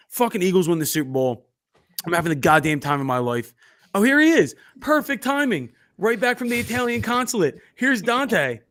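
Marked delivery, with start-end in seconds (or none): 3.9-8.6 high-pitched introduction of a guest; mock welcome announcement. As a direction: announce his arrival high, with mock ceremony. Mock-welcoming a guest onto the show.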